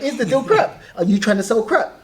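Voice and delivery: imitating mum, high and loud; a hint of a questioning mother; mum's voice. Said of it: "That's what my mum is".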